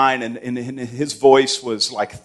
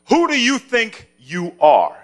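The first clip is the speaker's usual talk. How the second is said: slow, higher hint of a scolding dad; stern father imitation; 9 semitones higher, slower than usual. Son imitating his father's scolding question, slow and higher. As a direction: lightly play the thundering father. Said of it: "he would say".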